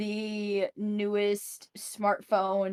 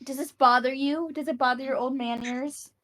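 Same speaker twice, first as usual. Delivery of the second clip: lightly mocking, a touch higher; teasing; 4 semitones higher, faster than usual. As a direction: playfully needle the old man. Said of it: "She's like".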